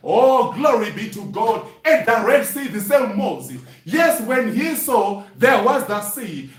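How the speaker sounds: ordinary delivery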